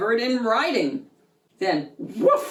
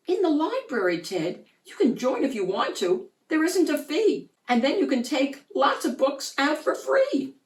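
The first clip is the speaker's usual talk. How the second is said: put-on cheerful boy; 6 semitones higher than usual. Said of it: "Peter replied".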